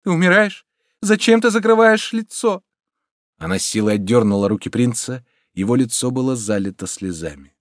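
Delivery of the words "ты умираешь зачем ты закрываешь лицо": high, loud, anxious questions; distressed, pleading cry; horrified. A narrator's reading. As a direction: ask in rising panic. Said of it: "с ужасом воскликнула девушка".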